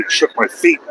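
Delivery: squeaks up high on feet again; real delighted high rise; amazed. Real, not acted. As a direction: marvel at the rumble, rising. Repeats amazed.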